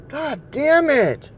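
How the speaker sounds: high, slow drawn-out curse; exasperated curse. Real, not acted. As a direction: stretch the curse out in frustration. Frustrated at the game.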